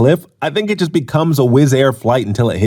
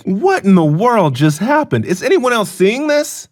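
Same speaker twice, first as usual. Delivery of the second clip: higher-pitched mock panic; freaking out; 6 semitones higher than usual. Storyteller freaking out in the Berlin park, mock panic. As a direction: act out a mild, baffled freak-out. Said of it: "I started freaking out".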